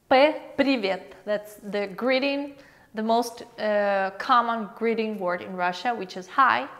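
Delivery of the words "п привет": П, привет said slowly as pe, privet; slow letter demo. Shown as a demonstration.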